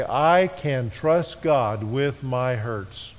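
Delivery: slow, deliberate statement of faith; slow and weighty, word by word; slow declaration. Shown as a demonstration. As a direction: spell it out slowly for the congregation to repeat. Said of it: "I must be able to say".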